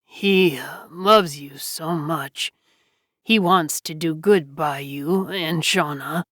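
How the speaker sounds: slow, low, weakening voice; a hint of a dying man's weakness; weak dying voice. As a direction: let the voice fail, slowly. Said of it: "his voice becoming weak".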